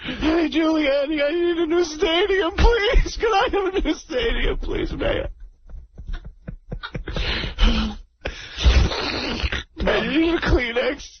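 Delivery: a hammed-up blubbering boss, lightly voiced; radio caller doing a weepy team owner, mock sobbing; mock weepy Steinbrenner. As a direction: play the tearful team owner, half laughing. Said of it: "We got Corky Steinbrenner".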